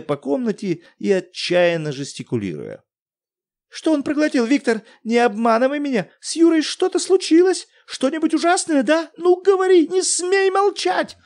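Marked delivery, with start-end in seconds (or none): 3.7-11.2 very high, loud, desperate; wife losing her head; hysterical cry. Acted. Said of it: "Окончательно потеряв голову, крикнула". (истерично кричит мужу)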